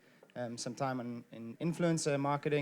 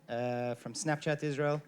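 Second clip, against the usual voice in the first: shout. Real, not acted. Playful loud self-introduction.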